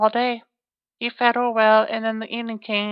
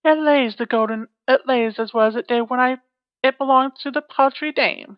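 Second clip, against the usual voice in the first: lightly voiced giantess; 2 semitones higher, 4 dB louder than usual.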